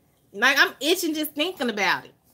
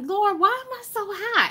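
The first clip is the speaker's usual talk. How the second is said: mock plea; 9 semitones higher than usual. Asking the Lord again.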